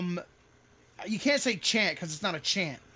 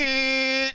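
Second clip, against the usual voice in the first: air horn imitation; 4 semitones higher, 5 dB louder than usual. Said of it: "like that".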